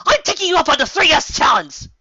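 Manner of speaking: loud, high challenge; defiant declaration. A narrator's reading. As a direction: fling down the gauntlet. Rarity issuing the challenge.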